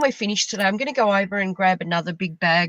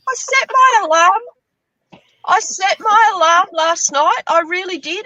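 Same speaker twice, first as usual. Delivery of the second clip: drawn-out emphasis; 8 semitones higher, 5 dB louder, slower than usual. Real, not acted. Retelling an oversleep.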